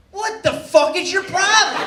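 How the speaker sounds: loud, high confrontational shout; snapped. Retold or imitated. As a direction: blow up at the dentist, hammed up. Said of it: "Something snapped".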